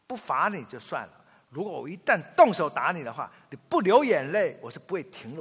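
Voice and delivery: loud stern threat; mother warns the children, loud and stern. Retold or imitated. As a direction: lay down the rule forcefully. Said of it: "我老婆是这样".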